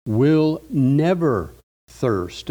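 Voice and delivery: slow, leaning on never; stress on never. Shown as a demonstration. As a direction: dwell on never so it lands. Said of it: "notice the emphasis on that word never".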